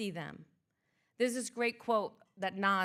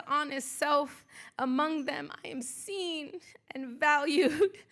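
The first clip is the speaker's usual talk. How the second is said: poem recitation. Acted. Speaker to audience honoring her sister tribe, spoken-word poem. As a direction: perform it as a spoken-word tribute.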